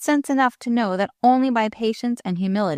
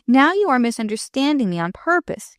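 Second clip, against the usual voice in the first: higher-pitched hurt protest; a touch of injured feeling; 6 semitones higher, 4 dB louder than usual. A narrator's reading. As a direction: protest as if mildly wounded. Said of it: "he declared in a hurt tone".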